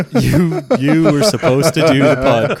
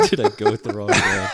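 laughing through the words; 4 semitones lower, 3 dB quieter than usual. Real, not acted. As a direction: giggle through the line. Joke line echoed laughing.

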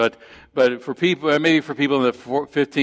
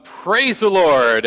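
high, slow, drawn-out mock shout; shouted praise; 6 semitones higher, 4 dB louder, much slower than usual. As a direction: call it out to heaven. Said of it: "go out and".

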